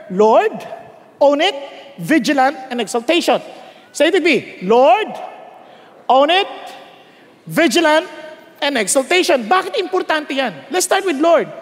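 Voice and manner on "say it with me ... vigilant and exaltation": each word called out for echo; preacher calling the acronym aloud; call and response. Shown as a demonstration. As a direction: lead the church word by word.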